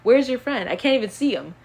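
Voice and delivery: mock friend search. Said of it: "I hate when people are like".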